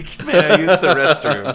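high, loud, drawn-out goofy question; hammed-up comic movie quote, laughing around it; slow, high-pitched silly plea; movie character impression. Quotes a comedy film scene.

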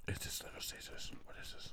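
ASMR whisper. Pretend. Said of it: "ASMR bit".

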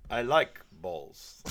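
slow, odd put-on voice on the second line; imitating a terrorist leader's strange compliment; mock terrorist voice. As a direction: drag out the last words like a weird villain. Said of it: "the terrorist goes".

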